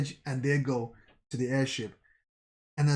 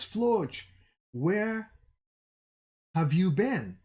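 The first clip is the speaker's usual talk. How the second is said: calling back; 5 semitones higher, slower than usual. A narrator's reading. Comrades calling back to Floch.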